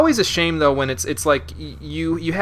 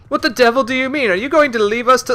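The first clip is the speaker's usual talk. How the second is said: high, loud dying-man cry; dying impression; 13 semitones higher, 8 dB louder than usual. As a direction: cry out as if breathing your last. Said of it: "that was my dying impression".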